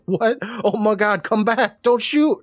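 high-pitched frantic pleading; acted panic. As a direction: plead in mock horror, building to a cry. Acts out Janet's panic at TV.

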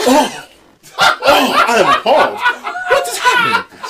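appalled white guys. Retold or imitated. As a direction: gasp it like prim appalled friends. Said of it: "they're taken aback".

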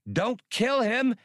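high, slow, loud urgent shout. A narrator's reading. Hasty stops Han from firing, high loud shout. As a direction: cry out high to stop him. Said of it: "Hasty shouted".

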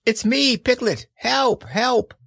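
high, small frightened voice; a timid little pig crying for help; Piglet voice. A narrator's reading. Piglet's note, other side.

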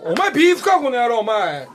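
loud, high mock thug rant; japanese delinquent tough talk. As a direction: pick a rap beef like a punk.

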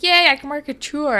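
high, squealy delight; giddy Fiona. Retold or imitated. Fiona delighted about the party, high. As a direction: lightly mimic a thrilled girl. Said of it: "she's like".

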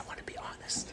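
hushed, secretive whisper. Retold or imitated. Mother confiding to the rabbi in a whisper. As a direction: lean in and whisper it like a confession. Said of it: "She whispers".

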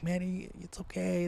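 gentle mock-nurse reassurance; reassuring nurse. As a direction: imitate a nurse soothing a patient. Nurse reassuring him in retelling.

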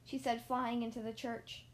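put-on reading a picture book aloud to children; story narration. A narrator's reading. Reader telling children about Mister and Missus Bird, storybook narration. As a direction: tell it like a bedtime story.

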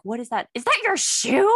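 high incredulous mock question; imitating Jordan. Friend on Snapchat spotting the shoe, high mock disbelief. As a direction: act out the friend's baffled reaction, rising. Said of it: "Jordan's like".

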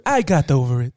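low, untroubled put-on African accent. Villager shrugging off loss, African accent. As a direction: brush it off in a comic African accent. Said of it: "I like how he's like".

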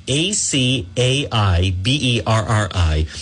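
slow, each letter apart; slow letter-by-letter spelling; spelled out letter by letter. Shown as a demonstration. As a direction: spell it out slowly for listeners. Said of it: "I pronounce it acai berry".

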